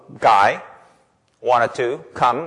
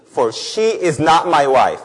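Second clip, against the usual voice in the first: slow, weighty reading of God's words; restrained reproach, slowly delivered; measured scripture reading; 2 semitones higher, 4 dB louder, slower than usual. Acted. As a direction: read it out slowly and deliberately. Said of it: "Why is God so angry".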